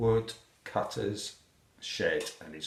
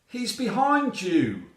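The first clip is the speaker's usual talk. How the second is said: high, drawn-out loud warning; warning shout; 12 semitones higher, 5 dB louder than usual. A narrator's reading. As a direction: call it out slowly and high. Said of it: "shouts the hedgehog".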